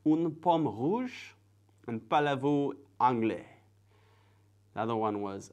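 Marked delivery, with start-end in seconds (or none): 0.1-3.4 careful learner's French, slightly raised; French pronunciation. Shown as a demonstration. Learner showing as much French as they know, careful French. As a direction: recite French phrases with a lilt. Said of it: "if my French was good there".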